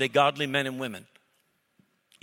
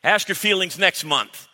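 louder, higher, slow hammed-up scolding; mock yelling friend; 4 semitones higher, 8 dB louder, slower than usual. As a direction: boom it out like a coach. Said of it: "That's how men talk to each other".

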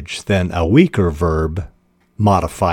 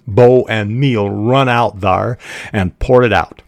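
put-on Southern country accent; 2 semitones higher than usual. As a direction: read the deputy lightly in a Southern country accent. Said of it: "I think, a Southern country accent".

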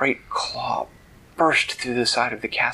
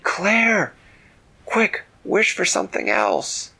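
high, raised-voice urging; urgent calling; 10 semitones higher, 3 dB louder than usual. Acted. Manella urges captive Claire to wish, urgent shout. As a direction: shout quick instructions to a friend in danger.

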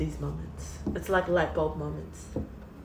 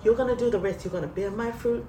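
higher, choked-up voice close to tears; tearful prayer; 5 semitones higher than usual. Real, not acted. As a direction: pray to the Lord as if about to cry. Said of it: "And I'm gonna cry now".

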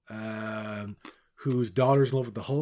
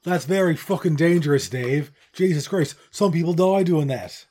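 louder, higher exasperated outburst; movie line quote; 3 semitones higher, 5 dB louder than usual. Retold or imitated. Quoting Rare Birds to a co-host, loud mock alarm. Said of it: "I like the movie Rare Birds".

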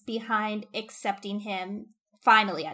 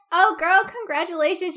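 higher and louder, bubbly delight; gushing congratulations; 7 semitones higher, 7 dB louder than usual. Retold or imitated. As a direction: gush like a thrilled best friend. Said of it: "Instead of being like".

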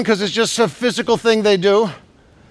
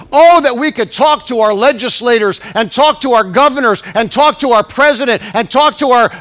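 ordinary delivery

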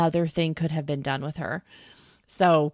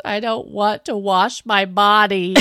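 mock tearful child, laugh creeping in; imitated sobbing; 3 dB louder than usual. Aunt imitates niece refusing a wash, mock sobbing. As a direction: imitate a sobbing little kid. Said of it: "she is just sobbing".

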